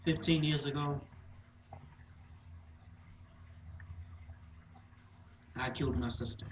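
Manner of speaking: hushed, halting confession with long pauses; dramatic monologue. Acted. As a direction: confess it quietly, leaving heavy silences.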